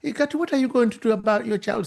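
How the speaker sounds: chatty clerk. Retold or imitated. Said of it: "talking about to the kid".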